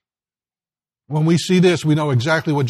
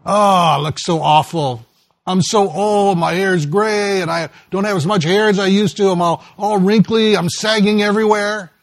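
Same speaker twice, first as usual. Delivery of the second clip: higher-pitched wail of an acted discouraged wife; discouraged lament; 4 semitones higher, 3 dB louder than usual. Wife despairing at the mirror, discouraged lament. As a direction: play up the weary self-pity. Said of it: "she just got so discouraged".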